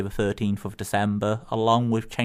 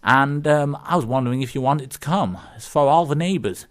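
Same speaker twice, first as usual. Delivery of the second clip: put-on amateur Yukon neighbour accent, a little lifted; half-managed Yukon accent for a joke; attempted Yukon accent; 2 semitones higher, 4 dB louder than usual. Neighbour invites lonely Bob to a party, rough Yukon accent. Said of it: "carry on with using the accent".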